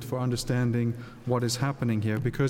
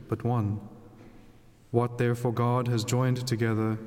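Gospel reading. Acted. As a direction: read scripture aloud at Mass.

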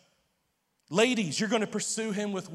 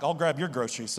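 suggestive innuendo; 7 semitones lower than usual. Retold or imitated. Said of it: "And I'm like".

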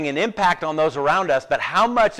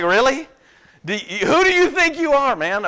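high mock indignation; hammed-up road rage; mock confrontation; 8 semitones higher than usual. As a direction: play the outraged driver, half joking. Imagined confrontation.

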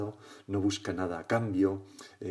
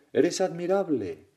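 high, loud, drawn-out call; father's acted shout; 8 semitones higher, 6 dB louder, slower than usual. Father intervenes for his upset son, loud drawn-out shout. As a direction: shout praise slowly across the mountain. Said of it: "y, y grita".

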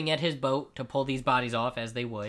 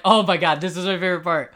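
mock gushing; 4 semitones higher, 8 dB louder, faster than usual. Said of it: "you're like".

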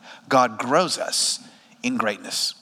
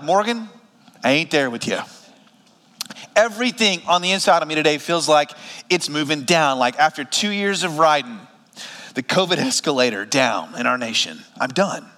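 weary churchgoer; 3 semitones lower than usual. Acted. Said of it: "You may feel like".

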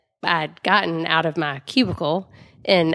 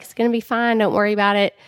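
reassuring; 5 semitones higher, faster than usual. Retold or imitated. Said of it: "she was so nice".

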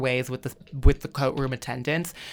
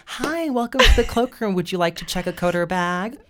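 cloakroom attendant greeting; 2 semitones higher than usual. Acted. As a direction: greet a customer in role-play. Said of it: "why don't we simulate it".

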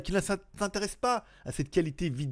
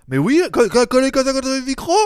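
loud stuttering excitement; excited stammer; 8 semitones higher, 10 dB louder than usual. Pretend.

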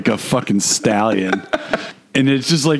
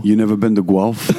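put-on Guelph, Ontario accent; small-town Ontario accent played for laughs; mock Guelph accent; 2 semitones lower than usual. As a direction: play a Guelph local with a joke accent. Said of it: "This is how everybody talks in Guelph".

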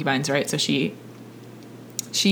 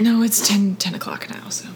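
whisper. Real, not acted. Whispered correction.

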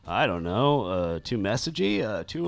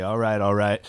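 imitating McConaughey. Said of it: "Somebody will eventually say".

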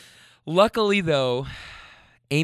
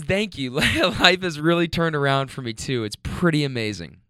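teary laugh through her words; emotional retelling. Retold or imitated. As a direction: retell it again, moved, half laughing. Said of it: "I'm gonna get emotional".

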